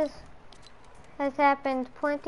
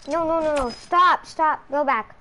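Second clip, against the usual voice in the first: urgent command; 3 semitones higher, 5 dB louder than usual. Pretend. Ordering someone back in play.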